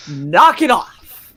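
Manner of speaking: slow firm warning to the parrot; slow it down and mean it; mock stern warning. Owner scolding her screaming parrot, slow and firm. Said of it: "That's me getting angry".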